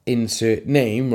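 slow, drawn-out mock announcer; award announcer. Convention host calling out the tribal winner, mock-announcer delivery. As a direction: lightly imitate an awards host building suspense. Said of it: "Until they call the name".

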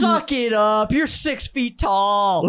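drawn-out imitated scolding; exasperated teacher act, stretching the words; mock berating. Teacher scolds oversized crying student, mock berating. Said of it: "absolutely berating him".

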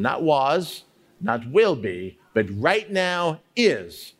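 slow, weighty stress landing on "is"; emphasizing each word. Shown as a demonstration. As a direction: set "was" and "will be" against a stressed "is". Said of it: "stop and emphasize each word".

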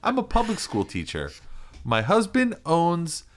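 high, giggly TV contestant voice; bubbly house-hunter intro, laughing; mock reality show guest. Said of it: "It's just like".

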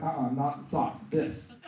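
gentle hushed redirect; soft correction. Retold or imitated. Preacher voices the Lord steering his sale, soft correction. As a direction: imitate a quiet, slow inner voice.

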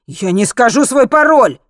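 loud, high-pitched angry bark. A narrator's reading. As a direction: bark the refusal. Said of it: "рявкнул Мартин".

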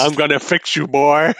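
mock tough vet promising the horse; mock gruff vet. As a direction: growl a vow to a hurt horse. Mocking vet talking to horse.

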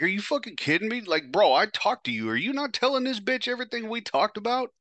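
high, pushed disbelief at a friend; imitating a furious betrayed buddy; retold outraged yelling. Telling off Chris for siding with the girl, shrill high outrage.

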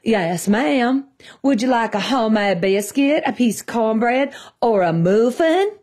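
mock Southern accent. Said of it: "put on his fake accent".

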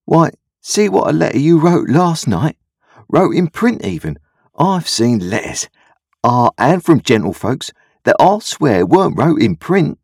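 high-pitched rustic enthusiasm; admiring Joe. A narrator's reading. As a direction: marvel proudly at the boy's skill. Joe praises Pip's letter.

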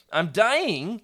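high, rising question; small voice, bad take. Shown as a demonstration. Reader's first try at a dying youngling's small voice. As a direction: ask it too high and bright. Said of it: "Oops, let me try that again".

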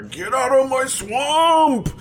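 high, slow, loud shout; swamp shout. Retold or imitated. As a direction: bellow it like an angry ogre. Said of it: "without that bad Scottish accent".

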